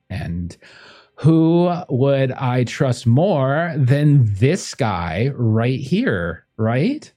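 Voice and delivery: gracious hostess, lightly voiced; a hint of a warm socialite; lightly voiced Portia.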